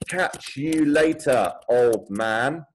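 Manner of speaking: teasing sibling calling out loud; called out loudly. Acted. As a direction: shout it cheekily after his brother. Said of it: "he's saying it quite loudly".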